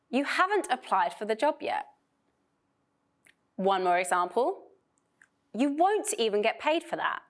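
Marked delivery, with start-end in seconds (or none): 0.1-1.9 haven't said clearer and stronger; stress on haven't. Shown as a demonstration. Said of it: "so it'll be stressed here". 5.5-7.2 won't punched clearer and stronger; stress on won't. Shown as a demonstration. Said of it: "I put the stress on "won't".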